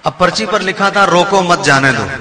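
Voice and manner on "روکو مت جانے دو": group روکو مت together, then جانے دو; let-him-go reading. Shown as a demonstration. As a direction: pause after مت, so روکو مت runs as one phrase. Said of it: "معنی بدلا اس کے انداز سے".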